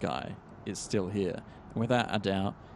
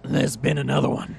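gruff detective growl, a bit louder; noir Batman; 2 semitones higher, 4 dB louder than usual. Acted. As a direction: play it like a brooding caped detective. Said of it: "yeah, Batman, but with, like, a hint of noir".

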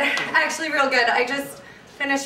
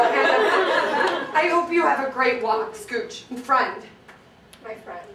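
awkwardly earnest, halting talk to a dog; regular-person voice. Acted. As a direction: address the dog like an adult friend. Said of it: "talk to him like a regular fucking person".

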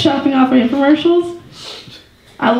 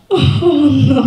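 higher-pitched, hammed-up Asian accent; stereotypical Asian accent; 4 semitones higher than usual. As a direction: put on a cartoonish Asian accent. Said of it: "the most stereotypical Asian accent".

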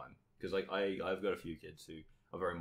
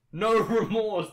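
high yelled outburst, much louder; mock defiant scream; 14 semitones higher, 13 dB louder, much slower than usual. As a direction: scream it like a defiant kid storming off. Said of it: "his response was like".

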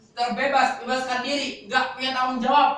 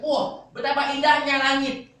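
high, loud admiring exclamation; wonder; 5 semitones higher, 4 dB louder than usual. Shown as a demonstration. Teacher acting out wonder at the sky, louder. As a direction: marvel at the sky.

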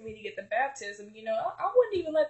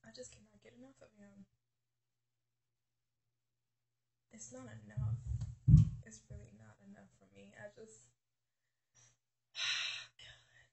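much softer, tear-choked words; barely getting it out through real tears; holding back tears; 4 dB quieter than usual. Real, not acted. Believer moved to tears by God's love, choked and soft. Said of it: "I'm gonna cry right now".

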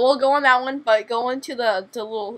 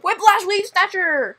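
higher, slow, dramatic; dramatic announcement; 8 semitones higher, 4 dB louder than usual. Real, not acted. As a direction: announce it like a ride name. Reading slope name with gusto.

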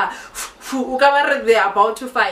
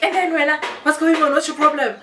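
put-on angry boyfriend; 5 semitones higher, faster than usual. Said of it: "he's there all angry".

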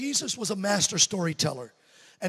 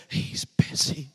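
put-on little boy's hushed whisper; 5 semitones lower, much slower than usual. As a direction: whisper secretly into the phone. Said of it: "came back on the phone whispering".

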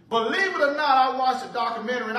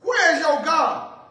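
lightly played contemptuous king; mocking Pharaoh. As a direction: sneer at their God like a tyrant. Preacher voices Pharaoh mocking God.

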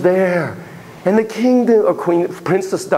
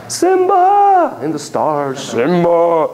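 Simba vision call; much slower than usual. Acted. Evokes Lion King father vision.

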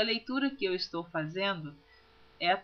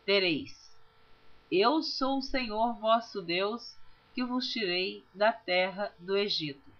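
solemn scripture reading. Acted. Narrator reading Leviticus aloud to listeners, solemn and measured. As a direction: read each verse out deliberately.

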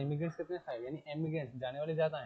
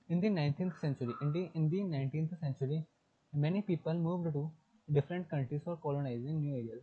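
slow textbook reading; much slower than usual. Shown as a demonstration. Teacher reading the English passage aloud to students, slowly. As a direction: read the passage word by word, very slowly.

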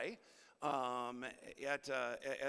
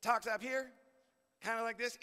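pitched up, a little louder, lightly imitating a teen; Leroy's voice; 5 semitones higher, 3 dB louder than usual. Teacher showing how student Leroy talks, pitched up. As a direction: push it up high like the kid. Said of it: "Leroy's got this real nasal voice".

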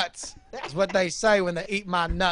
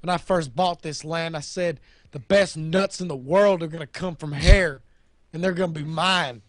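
hayseed nut farmer. Acted. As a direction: brag about the nuts like a country farmer. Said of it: "Johnny Nuts Nut Farm".

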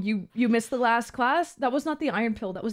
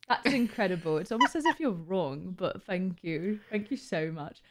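put-on British accent, sinking softer and lower; 3 semitones lower, 4 dB quieter than usual. Dismissing someone who is wrong, British accent. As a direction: trail down politely in a British accent. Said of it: "doing that fucking British accent".

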